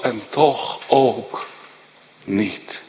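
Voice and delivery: fading soft. Acted. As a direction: trail off softly into niet. Fading emphasis. (zacht wegstervend)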